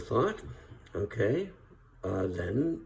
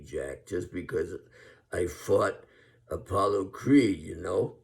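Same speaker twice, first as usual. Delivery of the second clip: Rocky; 5 dB louder than usual. Retold or imitated. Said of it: "a man I'm gonna leave you with".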